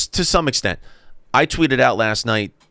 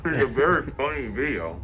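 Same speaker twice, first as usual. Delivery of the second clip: mouth full; 4 semitones higher than usual. Real, not acted. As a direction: still chewing while talking. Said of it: "You're still talking with your mouth full".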